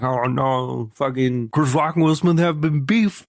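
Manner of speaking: snarky imitation of an internet arguer; mocking a chat viewer. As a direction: parody a heated commenter. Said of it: "come over to my Twitch chat and be like".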